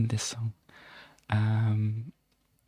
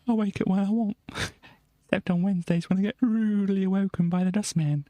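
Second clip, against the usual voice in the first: lightly voiced Cockney, raised pitch; mock Cockney; 6 semitones higher, faster than usual. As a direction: chat like the song's narrator. Continues song-style talk.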